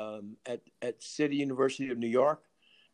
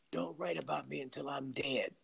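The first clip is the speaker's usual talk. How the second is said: much softer, matter-of-fact delivery; 11 dB quieter than usual. Retold or imitated. Writer recalling his friend's condition, quietly quoted. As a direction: drop the volume for a confided instruction. Quoting Miles, then repeated laughing.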